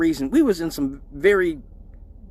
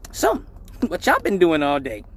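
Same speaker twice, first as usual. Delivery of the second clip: mom voice. Retold or imitated. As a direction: tease like his mom catching them leaving.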